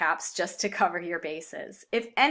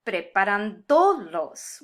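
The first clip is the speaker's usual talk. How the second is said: preparándolos wrongly said as preparanDOlos; misplaced default stress; 5 dB louder, slower than usual. Shown as a demonstration. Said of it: "emphasis on the second to last syllable".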